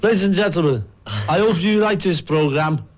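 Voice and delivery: a singer's voice. Shown as a demonstration. The singer introducing the programme in his put-on voice. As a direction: lift it up into a sing-song announcer. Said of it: "Speaking your Paul McCartney voice".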